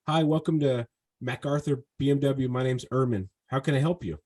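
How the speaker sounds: rote, going-through-the-motions greeting; emotionless sales greeting. Shown as a demonstration. Salesman showing a customer the wrong, emotionless greeting. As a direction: recite it like a script with no feeling behind it. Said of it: "There's no emotion".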